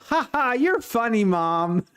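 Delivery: put-on high, teasing ha ha like a three-year-old; mock sarcastic toddler. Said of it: "and he just goes".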